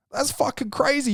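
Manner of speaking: high-pitched, amazed cry of disbelief; squeaky shocked exclamation; incredulous outburst. Real, not acted. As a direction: shoot the pitch way up in outrage. Indignant outburst, then calm repeat.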